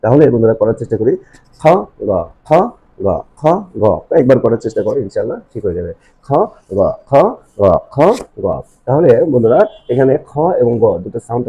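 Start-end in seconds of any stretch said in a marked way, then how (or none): 1.6-3.8 isolated drill of খ and গ from inside the throat; deep throat sounds. Shown as a demonstration. Teacher demonstrating articulation points to learners, throaty খ and গ. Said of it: "গলার একেবারে গলার ভিতর থেকে সাউন্ডটা আসতে হবে". 6.3-8.5 isolated drill of খ and গ from inside the throat; deep throat sounds. Shown as a demonstration. Teacher demonstrating articulation points to learners, throaty খ and গ. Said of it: "গলার একেবারে গলার ভিতর থেকে সাউন্ডটা আসতে হবে".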